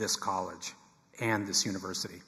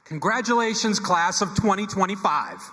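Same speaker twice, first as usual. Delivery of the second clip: excited; 9 semitones higher, 7 dB louder than usual. Real, not acted. Dean greets graduating class.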